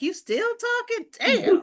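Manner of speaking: high, loud mock exasperation; annoyed teen attitude. Imitating Star rolling her eyes at the speaker, exasperated. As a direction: act out a fed-up young woman. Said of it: "she would look up at me like".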